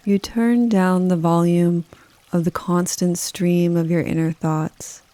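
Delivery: calm, unhurried meditation delivery with long pauses; guided meditation. Acted. Yoga nidra guide leading listeners through a rainforest, calm guided meditation. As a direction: guide the listener gently, leaving space after each phrase. Leads a forest bathing meditation.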